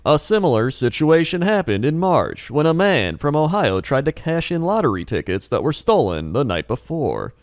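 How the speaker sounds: mock news anchor read; newscaster voice. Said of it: "It's not a newscaster voice".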